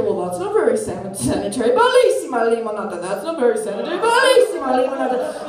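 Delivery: taunting memory voice; lightly voiced haunting customer; echoing snooty voices. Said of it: "and I hear".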